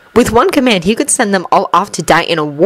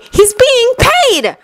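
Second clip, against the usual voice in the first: protesting; much slower than usual. Acted. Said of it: "Hermione protested".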